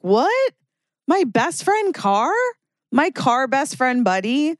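high, hammed-up betrayed whine; mock dismay. To a car leaving the highway, high mock heartbroken dismay. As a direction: act heartbroken over a stranger's car.

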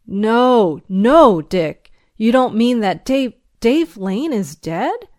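loud, stricken denial; shocked disbelief. Acted. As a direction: refuse to believe it, stammering. Shocked at news of friend's death.

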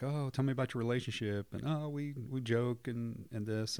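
light, breezy role-play; imitating breezy couples. Acts out premarital couples' breezy answers.

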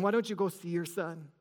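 soft, low pastor's nudge; gentle encouragement. Retold or imitated. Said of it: "the pastor just encouraged him".

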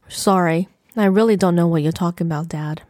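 fast, curt dismissal. Acted. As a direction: brush him off quickly and coldly. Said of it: "I said curtly".

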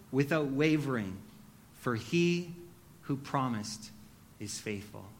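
measured, solemn reading of scripture. Acted. Reads Hebrews chapter ten aloud.

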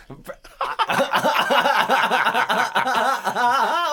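bursting out laughing; loud high cackle of real delight. Real, not acted. Laughing at the line.

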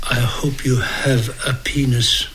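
whispered slow bellhop line. Retold or imitated. Bellhop to the honeymooners, a slow whisper. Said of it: "the bellhop says".

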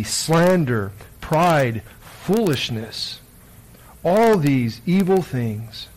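solemn, measured Gospel reading with deliberate pauses; scripture reading. Acted. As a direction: proclaim each phrase slowly and distinctly. Reads the Gospel aloud.

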